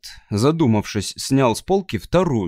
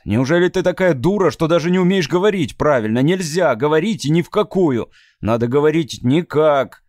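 louder, higher fast berating; angry scolding; 4 semitones higher, 3 dB louder than usual. Acted. Matt yelling at Abby about her grammar. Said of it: "заорал на неё Мэтт".

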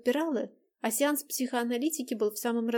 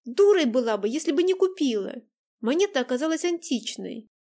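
angry; 4 semitones higher, 7 dB louder than usual. Acted. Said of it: "Дайнека неожиданно разозлилась".

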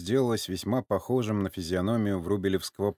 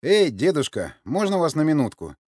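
raised, higher hail; calling out; 7 semitones higher, 6 dB louder than usual. A narrator's reading. Zhora hails the old man by the jeep, calling out. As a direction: call over to an old man. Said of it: "окликнул старика".

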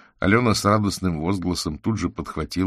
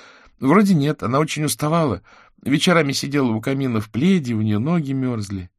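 put-on little girl; 8 semitones higher, 4 dB louder than usual. A narrator's reading. Girl voice answering the wizard.

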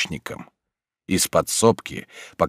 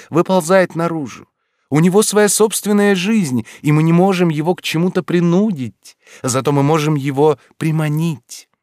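high, rapturous odd teacher; eccentric teacher voice; 7 semitones higher, 3 dB louder than usual. A narrator's reading. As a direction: rhapsodize like a dreamy oddball. Lorenz voiced by narrator.

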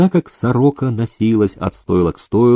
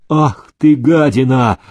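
higher, louder furious cry; enraged outburst; 3 semitones higher, 4 dB louder than usual. Acted. Groom enraged by the housekeeper's poison offer. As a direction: lash out at her.

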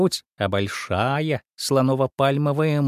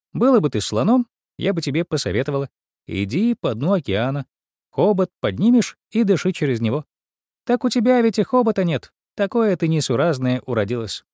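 higher, lightly voiced bossy mouse; a fussy know-all mouse giving advice; 4 semitones higher than usual. Mouse speaks. (мышь-всезнайка, чуть выше голосом)

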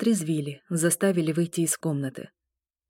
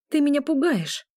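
hysterical notes; 8 semitones higher, 3 dB louder than usual. A narrator's reading. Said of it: "с истеричными нотками в голосе".

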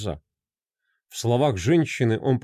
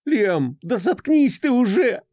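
woman's shout; 10 semitones higher, slower than usual. Acted. An exhausted wife screams at her husband to shut up. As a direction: snap at him to shut up. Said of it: "закричала женщина".

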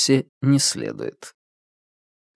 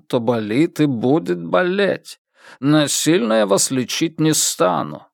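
lightly voiced Jewish accent; a hint of a Jewish accent in Russian. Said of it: "низкий, с еврейским акцентом".

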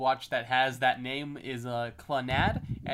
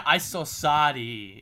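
slow mock Japanese-accented broken English; 3 dB louder, much slower than usual. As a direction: imitate a Japanese voice actor's halting broken English. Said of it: "it's all broken English".

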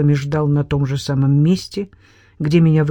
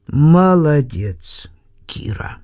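dry cold whisper; much slower than usual. Acted. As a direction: say it dry and mocking. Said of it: "раздался сухой голос".

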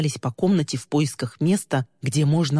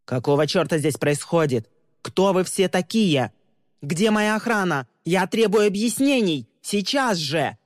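angry demand; 4 semitones higher than usual. Acted. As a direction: rage at the intruders. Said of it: "разгневанный голос Тристина".

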